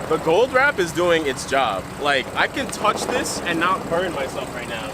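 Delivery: shouting over engine. Real, not acted. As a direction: project over the engine noise. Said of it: "hopefully you can hear me over the engine".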